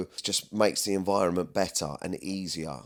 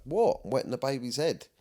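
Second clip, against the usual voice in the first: indignant what; 6 semitones higher than usual. Retold or imitated. Retold drunk self, indignant.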